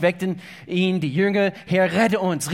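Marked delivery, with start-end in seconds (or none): 1.7-2.5 etwas lauter, dringender Hilferuf; aufgeregter Ruf. Acted. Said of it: "riefen sie aufgeregt". (leicht panisch gerufen)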